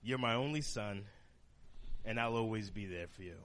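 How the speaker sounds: a mother tenderly telling her only son; tender mother quote. Retold or imitated. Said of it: "and she said".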